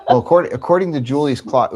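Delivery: said through laughter; laughing. Real, not acted. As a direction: giggle through the words. Laughing at the late start.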